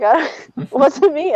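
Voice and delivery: mock childhood scream. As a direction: imitate a kid's screamed protest. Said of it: "I just remember screaming".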